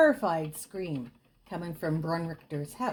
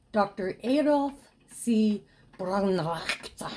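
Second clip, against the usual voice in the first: German accent. Shown as a demonstration. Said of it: "my German accent is even worse".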